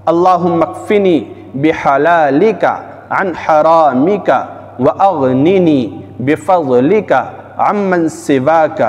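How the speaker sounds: slow, deliberate Arabic recitation with pauses; measured devotional chant of a supplication; slow dua recitation. Shown as a demonstration. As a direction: recite each phrase slowly and carefully for viewers to learn. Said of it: "اور پڑھ کر بھی بتا رہا ہوں".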